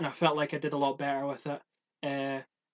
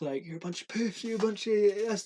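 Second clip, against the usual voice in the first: lightly voiced taunting; 5 semitones higher than usual. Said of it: "then it would be like".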